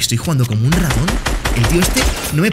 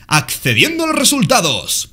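high, slow robotic readout; slow high mock announcer reading the screen; mock system voice; 9 semitones higher, slower than usual. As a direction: read it like a machine. Reading loading screen aloud.

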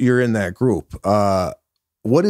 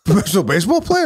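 can't finish the line without cracking up; amused disbelief; laughing; 10 semitones higher, much faster than usual. Retold or imitated. Retold question breaking into laughter.

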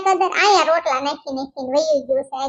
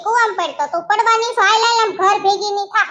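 high-pitched bossy telling-off; scolding sister-in-law; 4 semitones higher than usual. Acted. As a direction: order her home indignantly. Sister-in-law orders her home. (ઊંચા સૂરે ઠપકો)

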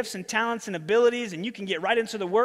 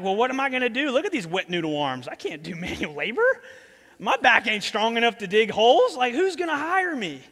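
higher, louder whiny panic about manual labor; mock panicked manager; 4 semitones higher, 5 dB louder than usual. Fired manager whining to his master, hammed-up panic.

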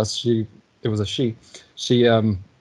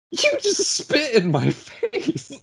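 high, slow, laughing through the words; laughing in disbelief; slower than usual. Retold or imitated. Spat-on driver laughing at the angry woman, slow and high. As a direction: laugh it out, stunned and amused. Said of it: "I start laughing at her".

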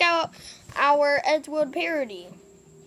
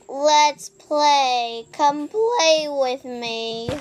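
slow, louder sing-song invite; Playtime impression; 4 dB louder, much slower than usual. Brother copies the game's Playtime, slow sing-song. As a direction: lure them in, slowly. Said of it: "we could do playtime".

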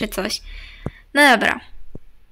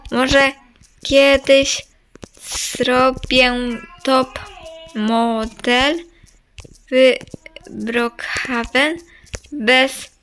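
slow, word by word with pauses; typing aloud; slower than usual. Real, not acted. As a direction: say each word separately as you type it. Spelling out a message while typing. (powoli, słowo po słowie, jak przy pisaniu)

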